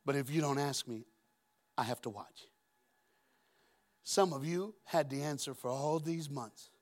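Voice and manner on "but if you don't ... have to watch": quietly voicing Jesus' promise; soft Jesus voice. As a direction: speak it as a patient gentleman. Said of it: "His protocol is".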